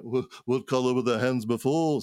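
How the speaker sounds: rough attempt at a Liverpool accent; half-remembered band film line in Liverpudlian. Trying a film line from a band, shaky Liverpool accent. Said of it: "trying to remember a line from the Yellow Submarine".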